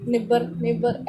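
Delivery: निब्बर said as if spelled without the silent gh; teacher to students, showing wrong निब्बर with silent gh sounded; wrong pronunciation. Shown as a demonstration. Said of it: "ऐसे हो जाएगा".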